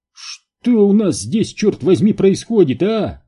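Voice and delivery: loud, high-pitched angry bark; barked demand. A narrator's reading. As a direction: bark it like a sergeant losing patience. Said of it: "рявкнул сержант". (сердито рявкнуть)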